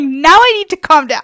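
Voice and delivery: high, loud, giggly alarm; hammed-up nervous self-talk; mock panic. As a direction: talk yourself down in comic panic. Panics laughingly as bouncer approaches.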